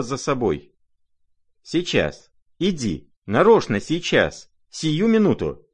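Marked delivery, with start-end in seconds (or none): 1.6-5.7 much higher, loud, frantic urging; impatient cry. Acted. Lizaveta hurrying the prince to the dacha, frantic and loud. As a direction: drag him along right now, wildly impatient. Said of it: "вскричала она в припадке ... волнения и нетерпения".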